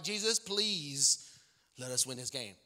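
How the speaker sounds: long-drawn please, then dropping low; pleading prayer. Retold or imitated. Isaac praying to Jesus before the game, pleading. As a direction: mock-desperate prayer, stretching the plea. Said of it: "Isaac was praying".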